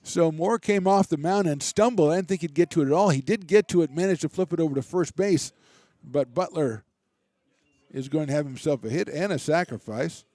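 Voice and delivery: brisk, lively baseball call; live play-by-play. Real, not acted. Radio announcer calling the inning for listeners, lively play-by-play. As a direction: keep the game moving for listeners.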